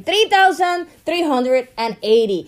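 formal newscaster read. Acted. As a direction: announce it like a newscaster. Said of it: "That's like newscaster voice".

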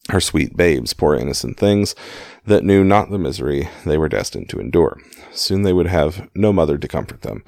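measured audiobook-style reading; story narration. A narrator's reading. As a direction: read the memoir aloud in clear phrases. Reads a book aloud.

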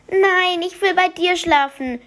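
put-on high squeaky child protest. Maximilian squeaks to his mother that he won't sleep alone. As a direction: squeak it out, refusing to go back. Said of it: "quietschte Maximilian".

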